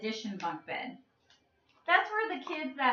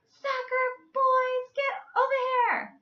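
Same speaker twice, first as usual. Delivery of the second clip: mom calling out; 12 semitones higher, 4 dB louder than usual. Retold or imitated. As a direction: call the kids in like an annoyed mom. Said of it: "starting to get a little mad".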